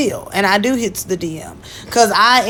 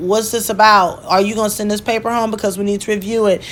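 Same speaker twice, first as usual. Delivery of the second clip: normal talking voice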